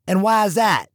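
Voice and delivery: exclaiming. Acted. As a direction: snap back the question. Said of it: "exclaimed Gill".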